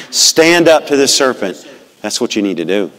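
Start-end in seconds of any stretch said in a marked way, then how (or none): 0.1-1.7 said loud again. Shown as a demonstration. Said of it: "Say it again".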